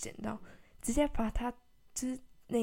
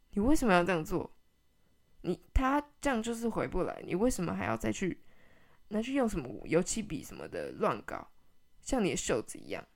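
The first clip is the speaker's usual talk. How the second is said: mom's furious scolding; 2 semitones lower, 4 dB louder than usual. Retold or imitated. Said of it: "整个当下暴怒".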